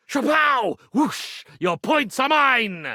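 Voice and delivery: high, gleeful sound effects; triumphant magic flourish. Acted. Magician grabbing Bobby's points, gleeful. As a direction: crow over the stolen points.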